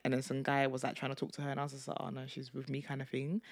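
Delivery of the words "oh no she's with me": calm. Retold or imitated. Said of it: "I said in the most calm way".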